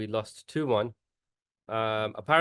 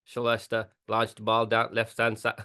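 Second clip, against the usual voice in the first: mock Jamaican McLaren. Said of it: "so McLaren".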